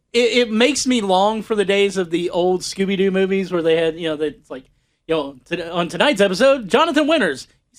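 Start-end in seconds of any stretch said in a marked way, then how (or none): 5.7-7.5 lightly voiced guest-star announcement, rising on the name; imitating show announcer. Mimics old show's guest-star announcement.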